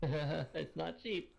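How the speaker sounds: a long, drawn-out warning; slow drawn-out tease. Acted. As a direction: stretch every word out slowly, teasing. Teasing about the price.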